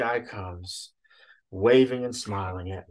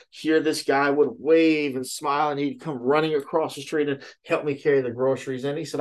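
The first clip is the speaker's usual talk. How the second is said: ordinary delivery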